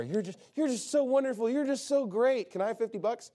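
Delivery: lightly voiced gushing flatterer; mild mock gushing, buttering them up. Mock flatterer gushing at someone to get money. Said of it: "that person's a flatterer".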